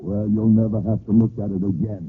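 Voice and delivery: loud, cold killer threat; menacing threat. Acted. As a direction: promise her death.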